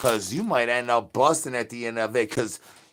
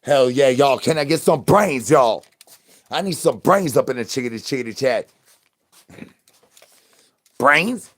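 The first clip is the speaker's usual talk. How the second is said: hungry zombie yelling for brains, pitch climbing; zombie calling for brains; 3 semitones higher, 8 dB louder than usual. Acted. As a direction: shout up at the crowd for brains.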